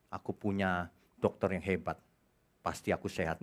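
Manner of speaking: soft, smug little voice of a believer who trusts his doctor; hushed, self-satisfied imitation; mock naive believer. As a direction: mimic someone lazily trusting others. Mocking a naive believer again.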